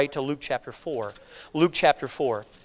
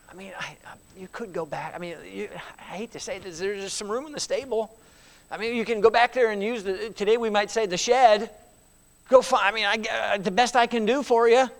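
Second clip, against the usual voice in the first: hesitant innkeeper; 3 semitones higher than usual. Retold or imitated. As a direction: stall awkwardly, sorry to say it. Hesitant innkeeper offers stable.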